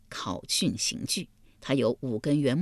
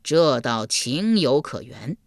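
sighing judge; slower than usual. Acted. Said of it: "阎罗天子叹道".

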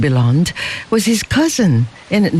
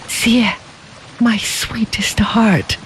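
glad and sad; 5 semitones higher, slower than usual. A narrator's reading. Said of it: "his voice both glad and sad".

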